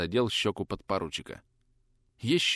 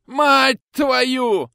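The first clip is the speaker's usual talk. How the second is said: much higher, louder roared oath; yelling curse; 9 dB louder than usual. Acted. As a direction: roar the curse out. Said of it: "заорал вдруг ротмистр".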